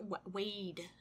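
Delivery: ordinary talk, nothing marked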